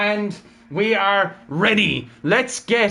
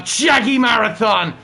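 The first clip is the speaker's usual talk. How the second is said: slow, raised-pitch commentator's call; excited announcement; 4 semitones higher, 4 dB louder, slower than usual. Real, not acted. Streamer announces Jaggy Marathon is out on track, excited announcement. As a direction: call the name out, higher and drawn out. Commentator greets driver's surprise appearance.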